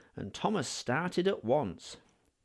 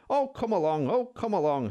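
impatient puffing; 6 semitones higher, 4 dB louder than usual. Acted. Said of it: "he puffed impatiently".

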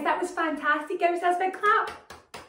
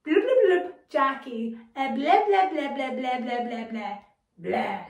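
alien language; 2 semitones lower than usual. Retold or imitated. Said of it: "he says".

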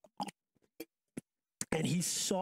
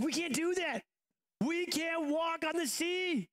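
incredulous; 12 semitones higher, slower than usual. Real, not acted. Incredulous emphasis on impossibility.

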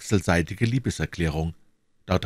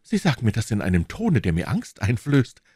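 put-on mildly frightened young woman; understated fear, close to tears; tearful fear; 5 semitones higher, 3 dB louder than usual. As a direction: let a touch of tearful worry in. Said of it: "mit einer Träne in den Augen".

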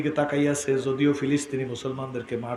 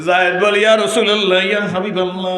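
higher, louder sermon storytelling; raised preaching; 6 semitones higher, 11 dB louder, faster than usual. Acted. Preacher telling how the Prophet came round, raised preaching voice. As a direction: lift the voice through the tale.

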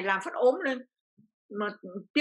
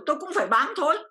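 ordinary talk

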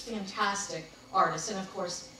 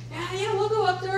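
higher, louder breezy yes; upbeat quoted invite; 9 semitones higher, 6 dB louder than usual. Retold or imitated. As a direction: toss off an easy yes to the plan. Quoting Mark's casual invite.

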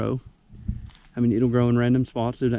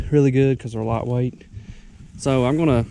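out of breath. Real, not acted. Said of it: "I'm sorry I'm out of breath".

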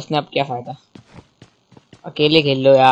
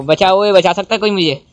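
calling for help; 5 semitones higher, 4 dB louder than usual. Real, not acted. Ambushed, calling teammates for help.

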